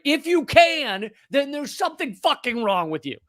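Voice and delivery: indignant. Real, not acted. Indignant emphatic challenge.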